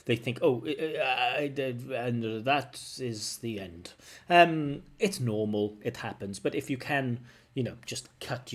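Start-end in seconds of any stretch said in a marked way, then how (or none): 0.4-3.9 halting start, trailing into a slow ending; stumble, then drag out the ending; hesitant candidate. Retold or imitated. Teacher imitating a candidate unsure how to finish, hesitant and dragged out. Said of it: "don't know how to finish a sentence".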